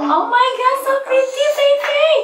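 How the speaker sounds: squealing with delight; high excited gushing. Real, not acted. Gushing over child in dress.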